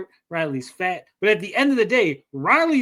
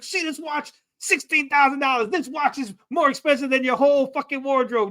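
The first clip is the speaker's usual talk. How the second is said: higher, boastful wrestler brag, lightly voiced; Ric Flair impression; 5 semitones higher than usual. Chris Bacon taunting a rival about his watch, light Ric Flair swagger. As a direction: brag like a cocky pro wrestler. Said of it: "He's doing a Ric Flair".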